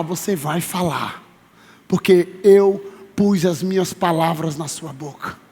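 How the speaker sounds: God's reassurance. Acted. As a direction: declare it solemnly with long pauses. God answers the frightened Jeremiah.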